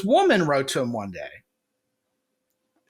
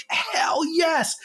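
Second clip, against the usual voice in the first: triumphant cheer; 13 semitones higher than usual. Retold or imitated. Guy realizing he's funny now, triumphant high cheer. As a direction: cheer it like you just won. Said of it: "you're gonna be like".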